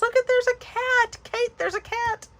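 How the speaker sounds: high excited call to Kate about the cat; excited squeal. Real, not acted.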